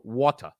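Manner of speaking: "water" tried the British way; British water attempt. Host tries Briton's word, imitated British "water". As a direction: have a go at British "water", no final r. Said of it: "Okay, so I'm gonna try".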